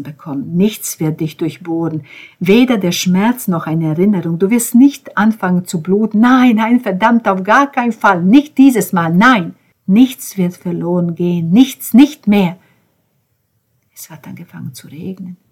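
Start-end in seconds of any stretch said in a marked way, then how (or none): 6.2-9.6 anguished outburst. Acted.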